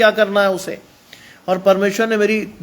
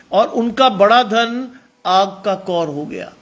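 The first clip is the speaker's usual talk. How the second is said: slow emphatic; slower than usual. Shown as a demonstration. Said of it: "repeated line, said plainly next".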